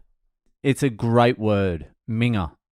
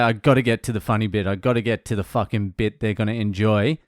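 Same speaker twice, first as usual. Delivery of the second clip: racing through; 2 semitones lower, faster than usual. Acted. Comic racing through his set to the funny bit, rushed. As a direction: hurry along towards the good bit. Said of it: "you just race through that minute".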